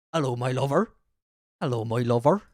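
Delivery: West Country greeting, lilting up at the end; West Country accent. Retold or imitated. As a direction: put on a West Country hello. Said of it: "In the West Country accent".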